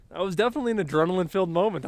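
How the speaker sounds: too much caffeine. Real, not acted. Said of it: "a little bit shaky right now".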